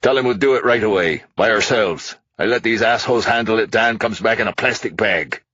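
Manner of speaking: put-on angry drunk tycoon. A narrator's reading. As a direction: spit it at the cops. Hastings voiced as character.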